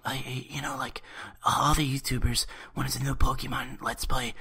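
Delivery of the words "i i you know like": whispered. Acted. Whispered reply to scold.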